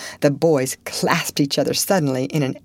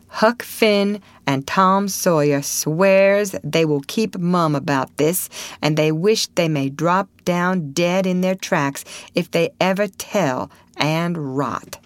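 solemn oath. Acted. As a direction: pronounce each clause as a binding oath. Reading out a solemn written oath.

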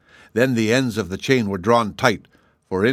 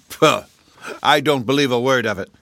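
half-frightened scoff; 3 semitones higher, 3 dB louder than usual. Acted. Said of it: "cried Ruggido, half frightened".

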